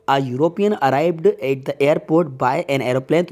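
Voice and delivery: slow, measured classroom reading; slow sentence reading. Acted. Teacher reads the next question to students, slowly and deliberately. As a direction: read it out slowly, word by word.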